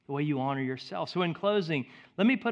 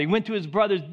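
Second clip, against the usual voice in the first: usual speaking voice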